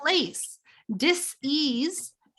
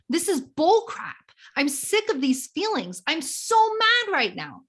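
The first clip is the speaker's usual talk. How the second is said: venting demo. Shown as a demonstration. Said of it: "Do that one more time".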